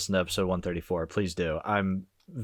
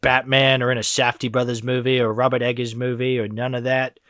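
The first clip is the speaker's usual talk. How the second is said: put-on British accent; 3 semitones higher, 4 dB louder than usual. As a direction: play a snooty British film boss, British accent. Mocking a British filmmaker.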